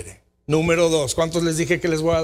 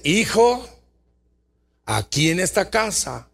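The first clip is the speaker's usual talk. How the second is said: firm father. Retold or imitated. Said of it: "donde le dice".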